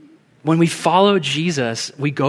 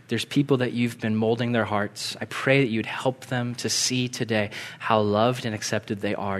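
gentle, subdued praying voice; closing prayer; 3 semitones lower, 3 dB quieter than usual. Real, not acted. Preacher praying to God before the closing song, subdued prayer. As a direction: pray quietly and sincerely, easing down toward the amen.

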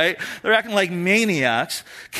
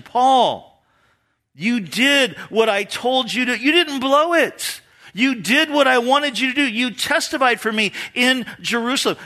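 raised, heartfelt praise; emphatic commendation; 4 semitones higher than usual. Acted. Jesus commending Paul for testifying, emphatically affirming. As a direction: praise him with firm, lifted emphasis. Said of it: "this is a word of commendation".

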